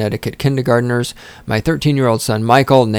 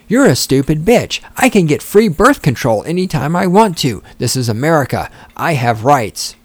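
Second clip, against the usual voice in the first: mock the entitled voter like a bratty teen; mock liberal brat; 3 semitones higher than usual. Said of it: "let's insert some other stuff".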